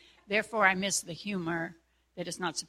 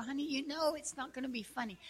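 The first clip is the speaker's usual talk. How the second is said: quick, higher, knowing jab; wry teasing; 6 semitones higher, 7 dB quieter, faster than usual. Retold or imitated. Wife teasing husband about his joke, wry. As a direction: rib him gently, fast.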